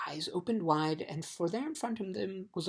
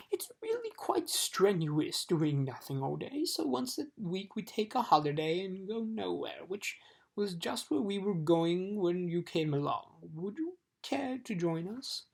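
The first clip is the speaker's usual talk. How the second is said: conciliatory; 3 semitones higher than usual. Acted. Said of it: "in a more conciliatory tone".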